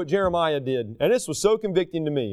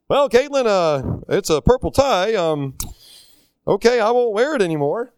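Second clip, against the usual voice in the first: louder acted answer with halting ums; flustered reply; 4 dB louder than usual. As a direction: play a teacher caught off guard by a student. Acts his reply to blunt student.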